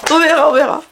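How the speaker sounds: laughing. Real, not acted. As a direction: laugh while dodging the promise. Laughing repeat of the reply.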